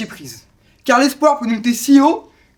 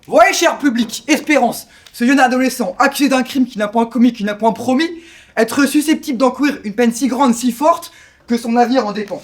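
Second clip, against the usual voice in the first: projected, declamatory address to an audience; stage oratory. Acted. Presenter pleads Espérance's case to the public, stage oratory.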